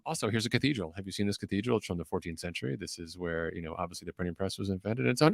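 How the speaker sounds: hushed sightseeing aside from a commentator; imitating a commentator filling time quietly; cycling commentator. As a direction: drop to a soft, chatty tour-guide commentary. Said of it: "if you don't watch the commentary".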